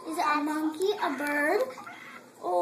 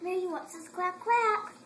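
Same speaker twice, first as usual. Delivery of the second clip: put-on sing-song, to a small child; bright, playful toddler talk; reading to a toddler; 2 semitones higher than usual. Parent quizzes toddler on animals.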